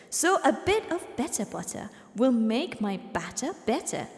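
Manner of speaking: measured, low British recitation; British accent. Acted. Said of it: "you do it in a British accent".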